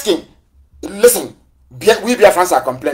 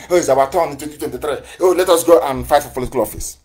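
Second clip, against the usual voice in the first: quick, dismissive parody of office seekers; lightly mocking, a touch softer; mocking quote; 3 semitones lower, 4 dB quieter, faster than usual. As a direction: sneer it off fast, like a child's excuse. Mocking politicians chasing office.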